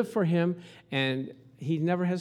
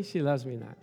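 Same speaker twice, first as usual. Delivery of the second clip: "She loves me not" dropped low and softer, lightly voiced; doubting lover; 5 semitones lower, 4 dB quieter than usual. Lovestruck guy plucking petals, disappointed drop. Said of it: "See, the guy's excited".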